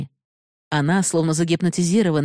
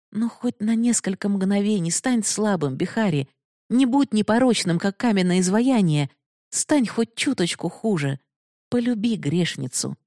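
pleading; 5 semitones higher than usual. Acted. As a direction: beg him tenderly from the floor. Binodini begs at his feet. (тихая мольба героини)

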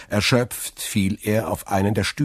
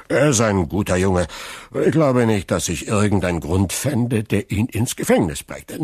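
louder, higher tipsy protest; drunken Caderousse; 4 semitones higher, 5 dB louder than usual. Acted. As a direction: defend him like a good-hearted drunk.

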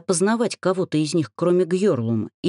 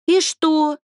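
eager question; 12 semitones higher, 5 dB louder than usual. A narrator's reading. Alka asks eagerly.

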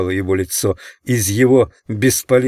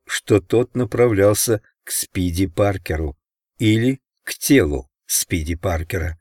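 ordinary delivery, nothing marked

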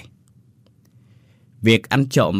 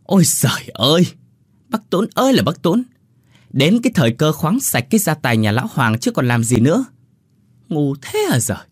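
mock despair, pitched up high; exasperated snap; 5 semitones higher than usual. A narrator's reading. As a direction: throw up your hands at his stupidity. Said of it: "đoạn gắt lên".

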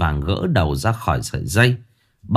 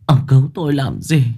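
wailing lament; 13 semitones higher than usual. A narrator's reading. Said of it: "khóc bù lu bù loa".

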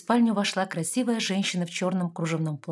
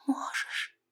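soft breathy whisper; mother whispering so no one hears; quiet whisper; 6 dB quieter than usual. A narrator's reading. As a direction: say it under your breath. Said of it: "тихо проговорила Лияра".

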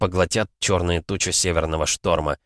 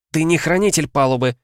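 high, forceful pronouncement; sharp shouted verdict; commanding declaration; 8 semitones higher, 4 dB louder than usual. A narrator's reading. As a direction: strip the rank with raised voice. Captain answers in shouted argument.

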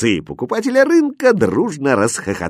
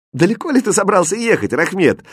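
amused teasing; 8 semitones higher, faster than usual. A narrator's reading. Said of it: "смеясь".

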